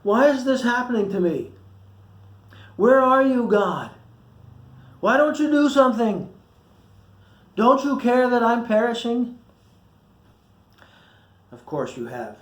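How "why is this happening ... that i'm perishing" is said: high, loud cries of desperation; anguished complaint. Acted. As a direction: plead with God who seems absent. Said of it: "You've never complained".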